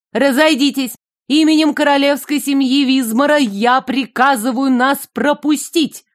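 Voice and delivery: high, ringing royal command; cartoon princess. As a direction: order the crowd aside like a princess. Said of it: "звонкий, уверенный голос принцессы".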